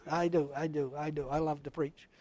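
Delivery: very soft and low; quiet confession. Real, not acted. Preacher admitting his love of preaching to the congregation, hushed. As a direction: drop right down into a private aside.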